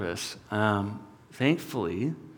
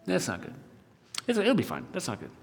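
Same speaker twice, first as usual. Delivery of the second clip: soft, uneasy muttering to oneself; retold worried thought, said under the breath; worried self-talk; 3 semitones lower, 7 dB quieter, faster than usual. Driver talking to himself as his sugars drop, worried and hushed. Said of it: "And I'm thinking".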